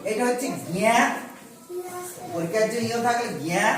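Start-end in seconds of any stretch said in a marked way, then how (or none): 0.7-1.0 জ্ঞা as gya through the nose; nasal gya. Shown as a demonstration. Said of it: "উচ্চারণ হবে". 3.4-3.6 জ্ঞা sounded as a nasal gya. Shown as a demonstration. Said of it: "উচ্চারণ হবে".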